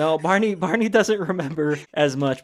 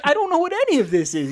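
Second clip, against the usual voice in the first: high, laughing protest; flustered laugh; 14 semitones higher, 4 dB louder than usual. Retold or imitated. Sweet older lady baffled by the alien leader, laughing high. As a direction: giggle through the confusion.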